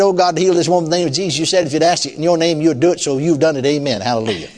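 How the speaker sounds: unhurried, each word of the prayer laid out; slowed-down prayer. Shown as a demonstration. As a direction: pray it out at an easy pace. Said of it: "I'd slow it down".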